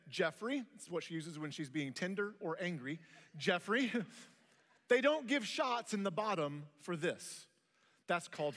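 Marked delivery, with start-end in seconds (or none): 0.1-0.6 calm loving. Retold or imitated. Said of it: "very lovingly, very clearly, but very calmly said". 3.4-7.5 calm loving. Retold or imitated. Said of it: "very lovingly, very clearly, but very calmly said".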